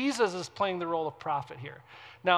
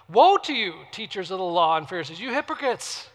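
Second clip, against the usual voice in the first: emphatic scripture rebuke; 7 dB louder than usual. Acted. Preacher voicing Jesus' woe to the Pharisees, loud denunciation. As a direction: proclaim it forcefully, lifting the last words.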